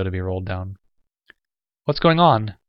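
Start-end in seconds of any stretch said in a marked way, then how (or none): 1.8-2.5 nervous demand. Acted. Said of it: "Lamar demanded nervously".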